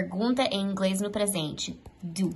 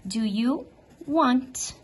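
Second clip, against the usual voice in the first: slow, clear English question; slow model question; 3 semitones higher, much slower than usual. Shown as a demonstration. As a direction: spell it out slowly for the class. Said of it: "I want".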